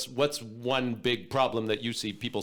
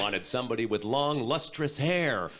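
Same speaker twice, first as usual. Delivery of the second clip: Mister Clean voice. Acted. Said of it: "I am Mister Clean".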